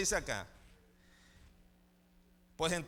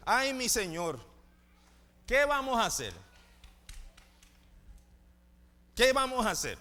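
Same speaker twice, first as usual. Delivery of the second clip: frightened servant; 3 semitones higher than usual. Acted. Criado asustado ante el ejército.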